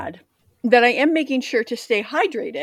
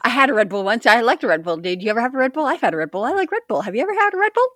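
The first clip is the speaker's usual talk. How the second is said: mildly manic dog voice, pitch climbing by the end; excited TikTok dog; 2 semitones higher, faster than usual. Retold or imitated. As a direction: rattle on like an over-caffeinated dog, rising. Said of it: "that TikTok of a dog".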